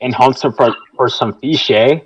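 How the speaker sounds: put-on Canadian accent. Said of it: "talking about accents".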